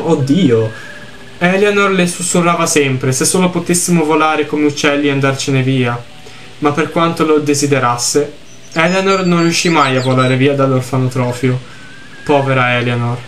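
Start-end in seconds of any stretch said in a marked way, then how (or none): 1.4-13.2 lettura misurata di un racconto triste; narrazione letta. A narrator's reading. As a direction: leggi la storia con tono composto. Legge ad alta voce il testo del gioco. (narrazione composta, da racconto)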